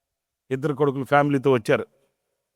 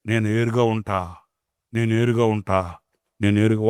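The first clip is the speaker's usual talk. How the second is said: stubborn refusal; 4 semitones lower than usual. Retold or imitated. Stubborn mother voiced.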